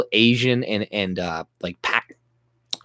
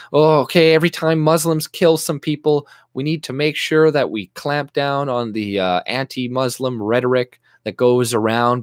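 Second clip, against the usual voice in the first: mock officialdom; 3 semitones higher than usual. Mocking authorities who guard against backlash, in mock earnest. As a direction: ham up the dutiful concern.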